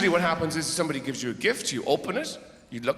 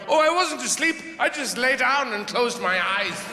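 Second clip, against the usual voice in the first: defensive napper; 3 semitones higher than usual. Retold or imitated. Napper waking in bed denying sleep, in high mock innocence. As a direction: bounce up protesting you weren't asleep. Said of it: "they bounce up in bed going".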